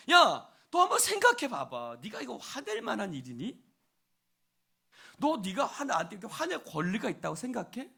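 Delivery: high, loud "야" easing into fatherly reasoning; 타이르는 아버지. Acted. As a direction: call out, then reason with a foolish son. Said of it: "등을 두드리면서 얘기하는 것처럼". (철부지 아들을 타이르는 아버지)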